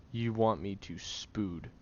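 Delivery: "spood" said as a tangled slip for spoon feed; slipped word spood. Real, not acted. Tired caretaker to sick friend, tongue slipping on "spood". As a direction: trip over "spood" instead of spoon feed. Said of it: "Stop saying spood".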